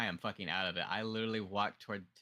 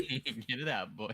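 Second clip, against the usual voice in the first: slow teasing drawl; 2 semitones higher, slower than usual. Acted. Teasing during hiccup.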